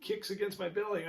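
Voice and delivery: a hint of an excited surrogate's running report; surrogate mother. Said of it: "like you hear from the surrogate".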